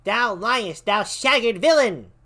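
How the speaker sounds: high, loud furious defiance; defiant retort. Acted. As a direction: spit it back at the killer. Mother defies the murderer.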